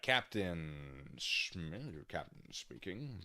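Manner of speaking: lightly voiced captain on the cabin address, drawn out; a hint of a slow pilot announcement; airline pilot voice. Reader voicing the captain's statement, light pilot voice. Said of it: "do the pilot voice for this".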